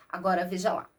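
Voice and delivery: ordinary talk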